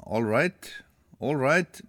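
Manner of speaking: retold reply in a light English accent. Radio host retelling a singer's coffee-shop reply, light English accent. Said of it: "með enskum hreim".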